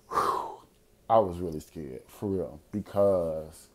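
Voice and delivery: soft, low and slow after a sigh; hushed, serious admission; sobered admission. Real, not acted. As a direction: drop the comedy and confess quietly. Sighs, turns serious about real fear.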